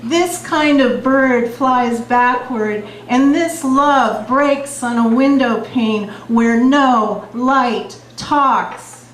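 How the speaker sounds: slow, measured poetry reading; beat poetry. Acted. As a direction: let each image land slowly. Reads her poem The Window.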